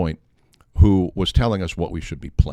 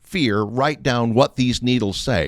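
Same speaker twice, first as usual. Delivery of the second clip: raised, insistent pushback, pitch way up; indignant retort; 7 semitones higher, 4 dB louder than usual. Retold or imitated. Radio host retelling how he argued with the program director, pitched high and insistent. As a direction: argue your case, voice climbing high.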